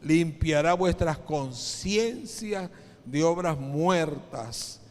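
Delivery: slow, emphatic reading from the pulpit; scripture reading. Acted. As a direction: read the verse out slowly, phrase by phrase. (lectura bíblica solemne y pausada)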